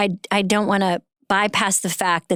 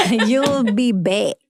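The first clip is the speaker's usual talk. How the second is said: slow, drawn-out mock British "you'll be bake"; imitated British accent; much slower than usual. Host mimicking the actor's show line back to him, imitated British accent. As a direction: savor the British vowel in "bake", stretched out. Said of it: "When you say bake".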